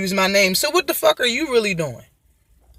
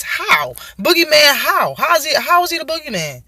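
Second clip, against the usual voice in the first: mimicking Danny Garcia; 4 semitones higher than usual. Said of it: "That's how he said it".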